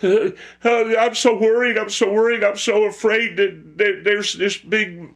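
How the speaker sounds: very high, frantic little mouse voice; panicked mouse. Acted. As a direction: plead in a squeaky, worried mouse voice. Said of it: "the mouse runs up and jumps in front of it and says".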